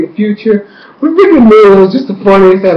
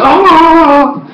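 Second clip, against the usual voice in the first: high drawn-out "aah"; imitated yell; 12 semitones higher, 3 dB louder than usual. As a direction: let out a long high cry. Imitating someone sent flying.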